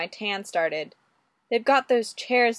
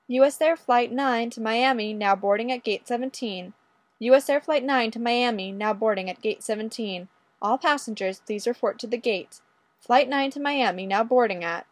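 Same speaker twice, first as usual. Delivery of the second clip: airport announcement. Acted.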